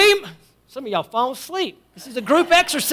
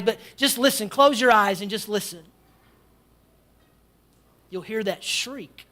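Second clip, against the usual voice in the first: hushed storytelling. Acted. Preacher guiding the congregation into the scene, hushed. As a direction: draw them into the dark night. Guided imagery of the tombs.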